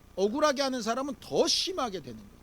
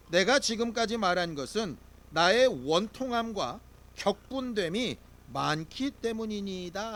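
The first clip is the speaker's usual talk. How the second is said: steady, measured unison Bible reading; scripture reading. Real, not acted. Pastor leading the congregation through the verse, measured reading. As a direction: read the verse aloud together.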